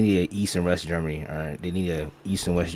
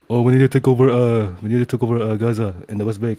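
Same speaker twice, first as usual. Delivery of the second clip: loud, higher-pitched mocking imitation; mocking yapping; 5 semitones higher, 7 dB louder than usual. Caller mocking Israelis yapping about taking over land, high mocking yapping. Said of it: "they be yapping about some bullshit".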